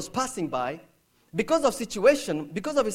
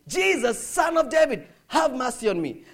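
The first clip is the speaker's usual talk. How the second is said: raised, higher-pitched plea; calling out; 4 semitones higher, 5 dB louder than usual. Acted. Blind beggar calling on Jesus to stop for him, calling out. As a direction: call on him loudly for mercy. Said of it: "calling on him".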